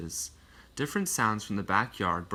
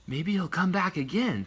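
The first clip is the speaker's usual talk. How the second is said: put-on higher young boy voice; lightly raised boy voice; boy's voice; 7 semitones higher than usual. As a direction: voice Fred as a little boy. Fred's thought voiced.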